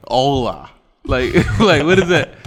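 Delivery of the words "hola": mock country drawl on Spanish; country-accented Spanish. Shown as a demonstration. Testing how it would sound, country-accented Spanish. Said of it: "what that would even sound like".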